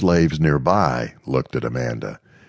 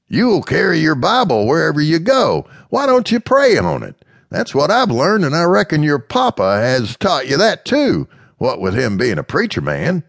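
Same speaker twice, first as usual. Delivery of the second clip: higher, louder character voice; Mister Smith, gently frank; 12 semitones higher, 4 dB louder than usual. Acted. Mister Smith frankly telling Amanda her fear, higher voice. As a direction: candid and frank, voiced high.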